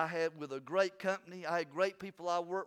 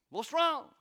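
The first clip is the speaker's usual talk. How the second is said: concerned wife; 11 semitones higher, 7 dB louder than usual. Retold or imitated. Wife calling, asking.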